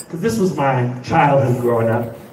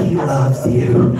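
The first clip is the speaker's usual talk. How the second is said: slow loud reassurance; 5 dB louder, much slower than usual. Retold or imitated. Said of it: "He's like".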